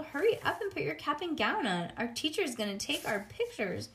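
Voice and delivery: put-on high, eager child's voice; rushing a classmate along; bossy little girl. Lucille keeps urging.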